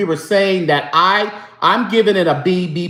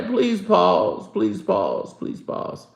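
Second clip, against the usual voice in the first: each please pause softer until breathy; fading pleading pause; 5 dB quieter, slower than usual. Shown as a demonstration. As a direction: let it fade to a hush. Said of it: "did y'all hear that pause".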